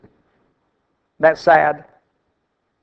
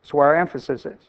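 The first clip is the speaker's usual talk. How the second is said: softer and lower, letting it sink in; softer repeat; 3 semitones lower, 6 dB quieter, faster than usual. Shown as a demonstration. Preacher to church, repeating it softer and lower. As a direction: drop the voice and repeat the point. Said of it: "repeats it softer".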